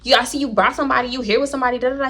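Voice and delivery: lightly voiced woman fussing; imitating her. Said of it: "She was like".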